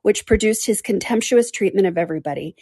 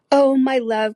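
higher, lightly exclaimed endearment; exclaimed appeal; 6 semitones higher, slower than usual. A narrator's reading. Wife calls to husband entering the room, exclaimed appeal. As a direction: call out fondly to a husband. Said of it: "cried Missus Palmer to her husband".

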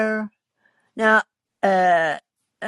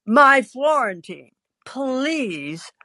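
exasperated pleading; 5 semitones higher, much slower than usual. Acted. Husband frets over his cooking.

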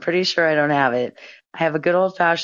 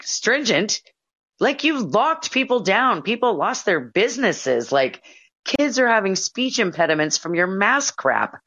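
raised-pitch, incredulous retort; retold indignation; 5 semitones higher than usual. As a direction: throw the word back in mild outrage. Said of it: "that pissed me off so bad".

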